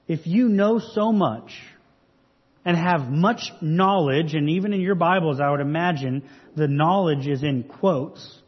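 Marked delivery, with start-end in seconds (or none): 0.1-4.3 slow, measured dig at know-it-alls; a touch of sarcasm, drawn out; mildly sarcastic. Acted. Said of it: "Paul's being rather sarcastic here".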